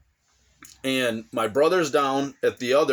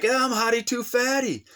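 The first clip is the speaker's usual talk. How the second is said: brother's boast; 10 semitones higher than usual. Retold or imitated. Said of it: "He's like".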